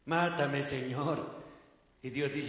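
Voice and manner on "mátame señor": despairing plea. Retold or imitated. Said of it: "Y al final".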